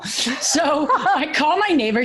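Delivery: talking through real laughter, slowed; laughing. Real, not acted. Host laughing at her own frantic story. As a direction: laugh it out while telling.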